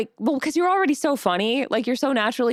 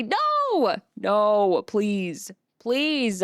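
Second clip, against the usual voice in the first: dismayed no; 3 semitones lower, much slower than usual. Real, not acted. Dreading a mentioned stream.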